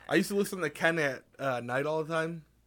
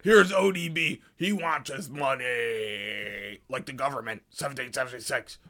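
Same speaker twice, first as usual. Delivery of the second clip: mock radio DJ; slower than usual. Mock DJ segue.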